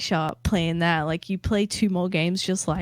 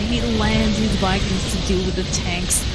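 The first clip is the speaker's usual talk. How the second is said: excited game-ending call; 4 semitones higher than usual. Real, not acted. Caster calls the end of Azure's army, excited. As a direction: voice climbing high into the final call. Casting the match's final decisive attack.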